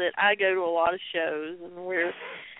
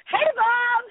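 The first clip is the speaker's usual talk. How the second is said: higher, louder mock greeting; imitating Zane; 14 semitones higher, 3 dB louder than usual. Cohost mimics Zane greeting Bob on pay-per-view, higher mock voice. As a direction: toss it out brightly as Zane would. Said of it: "He's like".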